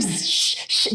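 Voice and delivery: whispered shush. Retold or imitated. Shushing her mum downstairs through the floor, whispering. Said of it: "And I'm like".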